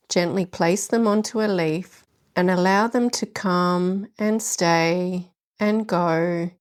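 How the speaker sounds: gentle, unhurried meditation guidance with long pauses; guided meditation. Acted. Host guiding listeners through the leaves meditation, gentle meditation voice. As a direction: ease the listener into stillness.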